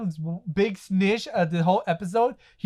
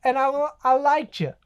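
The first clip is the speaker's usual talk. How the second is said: lightly voiced impression, higher pitch; slightly raised, deliberate character voice; Booty Warrior; 4 semitones higher than usual. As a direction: imitate him, drawing out the key words. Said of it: "he goes to the Booty Warrior".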